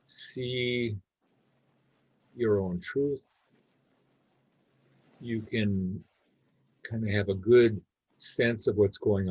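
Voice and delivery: calm meditation guidance with long pauses; unhurried, easy guide leaving space between phrases; guided meditation. Real, not acted. Leading a group to notice body and breath, guided meditation.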